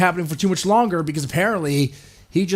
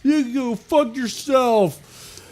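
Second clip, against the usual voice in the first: much higher, louder jeering shout; mock crowd booing; 10 semitones higher, 4 dB louder, much slower than usual. Angry fans booing the mobile Mario, high jeering shout. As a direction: boo like an outraged fan.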